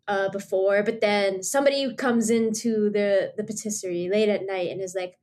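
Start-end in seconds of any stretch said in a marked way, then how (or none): none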